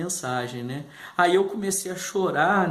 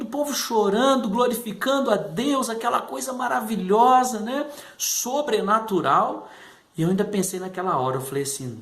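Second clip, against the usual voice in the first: normal talking voice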